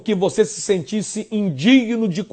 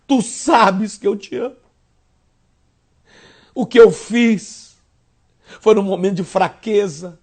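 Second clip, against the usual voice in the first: lightly voiced contrite Peter; Peter's confession; 3 semitones higher than usual. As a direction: confess and beg, building.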